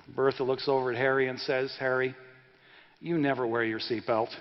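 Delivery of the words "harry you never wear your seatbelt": lower, understated wifely put-down; mildly acted wife, dropping the pitch; deadpan contradiction. Wife calmly contradicting her husband.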